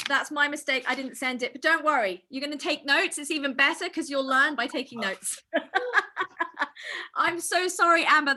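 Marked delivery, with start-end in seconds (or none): 3.2-5.4 laughing. Real, not acted. Laughs at her own mistake. 5.5-7.1 short real laugh; embarrassed laugh. Real, not acted. Laughs at her own mistake. 7.1-8.3 sorry through a laugh; laughing apology. Real, not acted.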